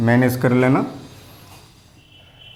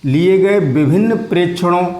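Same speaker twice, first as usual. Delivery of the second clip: slow dictation; 3 semitones higher than usual. Shown as a demonstration. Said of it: "मैं धीरे-धीरे बोल रहा हूँ".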